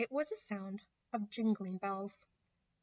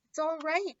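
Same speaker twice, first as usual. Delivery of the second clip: excited shout, higher and louder; 6 semitones higher, 4 dB louder than usual. A narrator's reading. Beaver calling his friends out of the cave, excited shout. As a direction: call out the good news. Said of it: "he was shouting".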